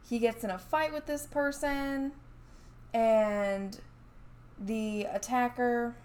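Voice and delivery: talking through hiccups; hiccuping between words. Real, not acted. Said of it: "I'm, like, hiccuping".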